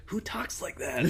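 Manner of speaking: high breathy mock voice saying who talks like that; mock incredulous. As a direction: whisper it up high, half-laughing in disbelief.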